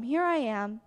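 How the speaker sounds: a believer offering himself to God in a hushed voice; hushed prayer. Shown as a demonstration. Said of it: "Just tell him".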